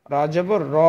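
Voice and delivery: "র" at the end cut short; short vowel demo. Shown as a demonstration. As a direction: spell out "র জবর র" with a quick, untended final vowel. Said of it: "হরকতের উচ্চারণ তাড়াতাড়ি করতে হয়".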